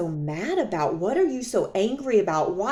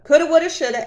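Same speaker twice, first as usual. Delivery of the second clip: higher, louder coulda woulda shoulda, each word punched; emphatic mock regret; 6 semitones higher, 5 dB louder, much faster than usual. Shown as a demonstration. Waving off her own regrets to viewers, emphatic. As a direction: throw the phrase out to dismiss it. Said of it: "and you can't do that".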